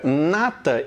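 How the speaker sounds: "Nata" with the tongue further forward; demo of N. Shown as a demonstration. Teacher contrasting N for students, careful "Nata". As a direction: say "Nata", tongue pushed to the front. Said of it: "ele foi um pouco mais pra frente".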